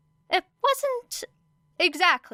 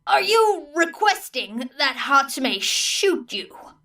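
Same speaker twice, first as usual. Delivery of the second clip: slow, higher, disbelieving; incredulous teacher; 5 semitones higher, 4 dB louder, slower than usual. A narrator's reading. Teacher questioning Era's plan, incredulous. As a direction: spell it out in disbelief.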